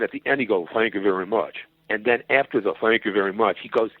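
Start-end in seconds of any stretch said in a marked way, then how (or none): 0.7-1.7 lightly voiced sign-off from a singer; a hint of a rock-and-roll star's thanks. Kaufman as a singer thanking the crowd, light impression. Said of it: "a singer at the end". 2.8-3.6 lightly imitated thanks from a singer; a touch of a rock-and-roll star signing off. Kaufman as a singer ending his act, lightly imitated. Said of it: "a singer at the end".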